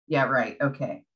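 understated sarcastic brush-off; retold dismissiveness. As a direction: drop into a doubtful, unconvinced aside. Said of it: "still carrying a chip on my shoulder".

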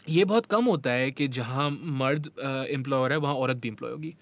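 Hindi sentence with English words; easy Hinglish code-switching; hindi english mix. Real, not acted. Hindi-English mixed talk.

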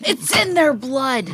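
slow, lightly voiced grim line; mock villager. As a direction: drag it out like a spooky villager. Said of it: "maybe I'm Frankenstein".

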